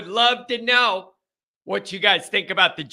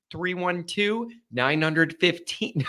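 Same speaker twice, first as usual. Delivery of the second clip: serious voice; 4 dB quieter, slower than usual. Shown as a demonstration. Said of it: "with this serious voice".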